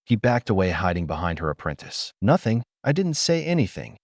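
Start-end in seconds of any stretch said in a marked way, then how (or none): 2.2-4.0 scream. A narrator's reading. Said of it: "he screamed".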